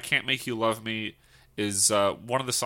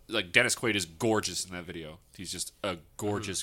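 dreamy, softer murmur to herself; inside voice; 5 semitones lower, 7 dB quieter than usual. Real, not acted. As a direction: gush quietly, half to yourself. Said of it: "that was my inside voice".

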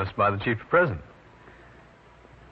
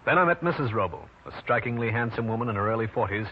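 hard-boiled narration. A narrator's reading. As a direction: tell the case like an old radio private eye. Detective narrates his own case.

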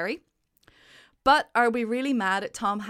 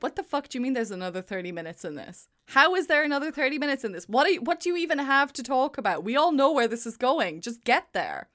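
fast, incredulous questioning; impatient quick-fire grumble; retold exasperation; 3 semitones higher, faster than usual. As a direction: rattle off the complaint in disbelief. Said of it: "I paused it and I went".

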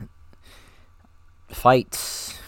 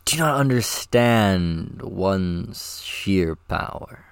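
grand villain; much slower than usual. Acted. Actor reading grand line.

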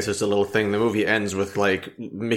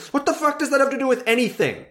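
much higher, fast incredulous squeal; mock bewildered outrage; 12 semitones higher, faster than usual. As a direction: imitate an appalled crowd in a high pitch. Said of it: "everybody was like".

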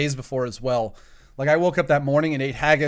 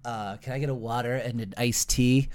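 meek request; 3 semitones lower, 5 dB quieter than usual. Retold or imitated. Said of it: "And he goes".

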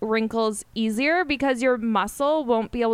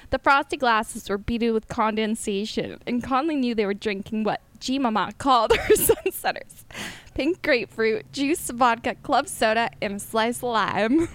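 lightly put-on southern accent. Shown as a demonstration. Reading friend her novel as heard in her head, mild southern accent. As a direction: read it with a hint of a southern lilt. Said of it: "in a southern accent".

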